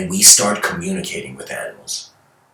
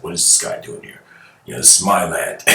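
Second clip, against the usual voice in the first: hushed, breathy grumble of a territorial elephant; elephant's inner voice; 4 semitones lower, 4 dB quieter than usual. Retold or imitated. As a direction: whisper it like an annoyed beast. Elephant's thoughts voiced aloud.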